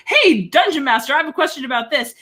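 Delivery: character voice. Shown as a demonstration. Player asking the Dungeon Master, in character voice. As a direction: pitch it up as a game character. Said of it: "if I say it in a character voice".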